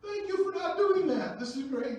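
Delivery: put-on high, loud, over-the-top delight at the kid; loud, overjoyed reverse-psychology praise; mock amazed praise. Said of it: "I said".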